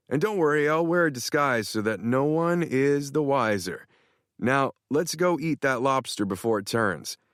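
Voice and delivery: a hint of a smug buddy; boastful Tanner. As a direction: brag it with a grin. Tanner plans the stakeout.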